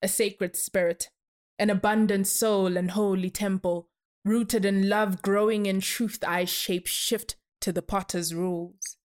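measured spoken-word delivery; poem recitation. Acted. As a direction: recite it like a performance poet.

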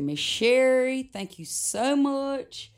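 high, slow, gushing thank you; grateful thanks. Retold or imitated. Running to thank the lady who lent lipstick, gushing. Runs to thank Miss Sherry.

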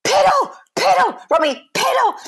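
very high pleading sing-song; coaxing dog to pee. Retold or imitated. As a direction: beg the dog to piddle. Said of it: "And I said to Robbie".

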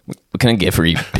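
a hint of frat bro; fratty bro. Bartender greeting on friend's request, lightly voiced frat bro. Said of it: "say it in a fratty bro way".

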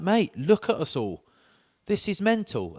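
hammed-up disbelief at the officer; exasperated outburst. Retold outburst at border officer.

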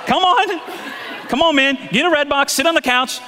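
high-pitched, eager mock urging; playful coaxing. Preacher jokingly urges married couples to go home, playful coaxing.

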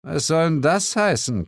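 growled. A narrator's reading. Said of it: "knurrte Suko".

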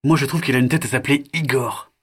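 put-on high, lively kids' banter; mock-announce to the parents, then muse on a name; chatty child voices. The children joking about telling their parents, high playful voices.

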